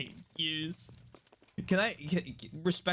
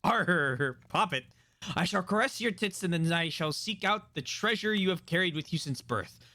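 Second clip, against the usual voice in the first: reading a love letter; 2 semitones higher, faster than usual. Acted. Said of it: "the words of Sir Hans Capot".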